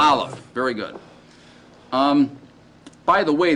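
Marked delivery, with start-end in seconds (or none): 0.0-0.4 "Aleph" said clearly as AH-lef, with a firm falling finish; model pronunciation. Shown as a demonstration. Teacher confirming the class's repetition, "Aleph" said clearly. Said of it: "Let's say it, just say the name".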